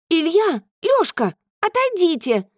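high shouted warning; shouting. Acted. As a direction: yell at the boys to stop. Liza shouts at stone-throwing boys.

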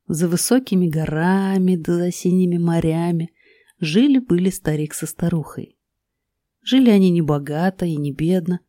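put-on lilting old-style fairy tale telling; grandma telling fairy tale. A narrator's reading. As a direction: tell it like a cozy bedtime tale. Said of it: "расскажи лучше сказку".

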